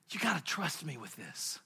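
gentle appeal. Retold or imitated. Father asks son for trust.

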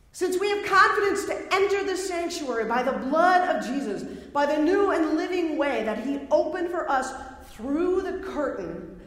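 excited, emphatic scripture proclamation; animated reading, pitched a little up; excited author. Acted. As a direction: declaim it as an excited writer, stretching key words. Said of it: "this is how he would say it".

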